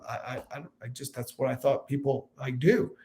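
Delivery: put-on a shy boy answering his dad; timid kid. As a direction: mumble it like a caught-out child. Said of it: "I was like".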